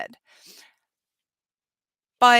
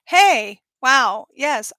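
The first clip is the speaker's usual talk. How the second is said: mock excited; 2 semitones higher, 8 dB louder, much slower than usual. Acting out joyful manifesting state.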